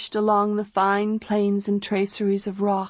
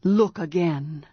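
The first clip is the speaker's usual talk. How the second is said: deepening voice; 2 semitones lower than usual. Acted. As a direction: let the voice sink as he insists. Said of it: "his voice deepening".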